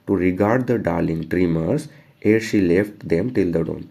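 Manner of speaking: slow, measured poetry reading; poem recitation. Acted. Teacher reading the poem to students, slow recitation. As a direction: read the stanza slowly, word by word.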